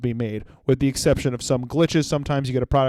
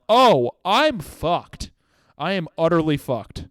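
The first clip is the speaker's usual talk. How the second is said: hammed-up horror at the timer; mock dread; 3 semitones higher, slower than usual. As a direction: let the doom sink in slowly. Panicked realization quote.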